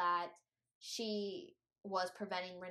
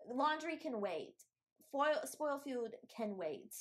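emphatic mom; 5 semitones higher, slower than usual. Acted. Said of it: "my mom would be like".

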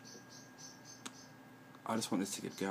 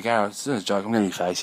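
mock confrontation; 9 dB louder, faster than usual. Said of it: "I go".

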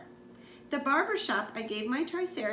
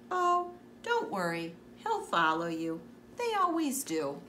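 bakery lady voice. Acted. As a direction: play the sweet bakery lady.

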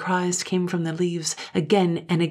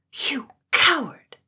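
slow, high, much louder outraged cry; furious cry; 9 semitones higher, 5 dB louder, slower than usual. A narrator's reading. Katrine crying out at Gloom after striking him. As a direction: hurl the word at him. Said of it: "With a cry".

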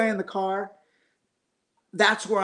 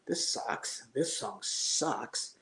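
mock producer verdict; 4 semitones lower, 10 dB quieter, much slower than usual. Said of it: "sometimes he'd be like".

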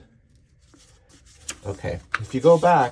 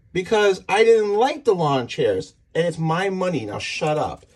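retold irritated comeback; 6 semitones higher than usual. Wife answers husband about lawn chairs, retold irritation. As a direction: imitate a fed-up wife, starting high and dropping. Acted quarrel, wife snaps back.

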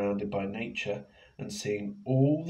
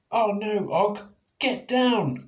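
high, loud alarmed call; Penny cries out to Og, high and loud; cried out; 11 semitones higher, 7 dB louder, slower than usual. Acted. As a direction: call him down off the seat. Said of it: "cried Penny".

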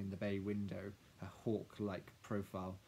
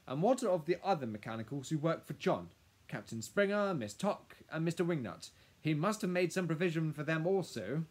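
put-on high, loud, questioning old-friend voice; concerned professor; 8 semitones higher, 9 dB louder than usual. Professor asking lawyer about the mechanicals, concerned. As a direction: press the lawyer on a worrying omission.

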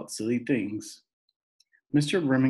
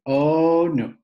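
horrified protest; 6 semitones higher, 8 dB louder than usual. A narrator's reading. Boy horrified at saddle shoes.

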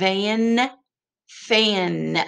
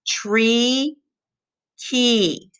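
"Tree, key" held out clearly; model words; 3 semitones higher than usual. Shown as a demonstration. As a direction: say it slowly so the kids repeat. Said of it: "Can you say it?".

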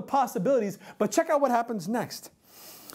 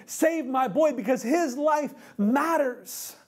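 begging father; 4 semitones higher than usual. Acted. Father pleads with Jesus to heal his son, begging. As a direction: beg him to come, pushing harder near the end. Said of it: "he's crying out, he's pleading".

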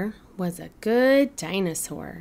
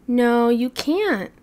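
firm no; 3 semitones higher, 5 dB louder, slower than usual. Acted. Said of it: "said Mamasaur".

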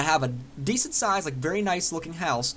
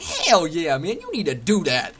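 put-on dude voice; 5 dB louder than usual. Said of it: "why you're talking in that voice".

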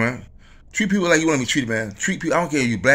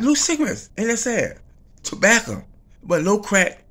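high incredulous outrage; 9 semitones higher, 3 dB louder than usual. Acted. Pitched way up in disbelief.

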